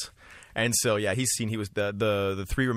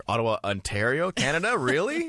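excited; 10 semitones higher than usual. Retold or imitated. Excited reaction to tour schedule.

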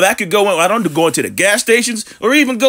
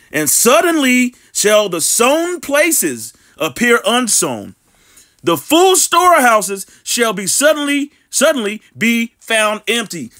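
slow, deliberate Bible reading; slow preacher's scripture read; slower than usual. Acted. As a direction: read the verse out slowly, weighing each phrase. Reads scripture aloud.

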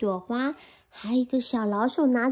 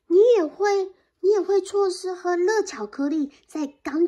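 excited mouse; 5 dB louder than usual. Acted. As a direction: sell the hot cocoa eagerly. Mouse tempting bear.

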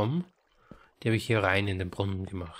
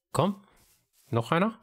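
much higher, pleading eagerly; high eager coaxing; excited high plea; 7 semitones higher than usual. Real, not acted.

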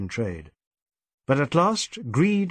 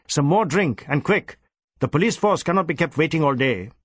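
brisk, louder order; a policeman's impatient snap; curt command; 3 semitones higher, 3 dB louder than usual. Acted. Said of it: "snapped Inspector Goethe".

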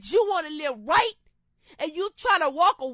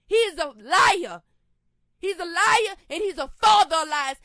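louder, forceful denunciation; angry defiance; 5 dB louder than usual. Real, not acted. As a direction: refuse the devil with real anger. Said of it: "I'm angry 'cause I'm mad".

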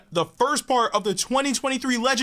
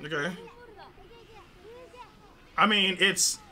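quiet murmur; 7 semitones lower, 10 dB quieter than usual. Real, not acted. Quiet watching reaction video.

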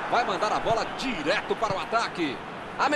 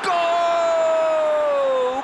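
explosive goal commentary; 8 semitones higher, 4 dB louder, much slower than usual. Acted. Goal scored in match commentary.

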